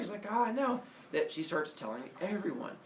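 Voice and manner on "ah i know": high, mock-thrilled reply; lightly hammed-up delight; gushing agreement. Semele soaks up their reaction, high and gushing. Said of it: "they reacted so positively".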